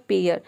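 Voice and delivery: पेयर blended as "pay-ur"; sounded-out word. Shown as a demonstration. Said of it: "पी का प हो जाएगा". (पेयर को "पे-अर" जोड़कर बोलें)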